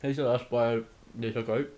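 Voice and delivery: talking while chewing; words around a bite of food; mouth full. Real, not acted. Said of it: "You need to stop talking with your mouth full".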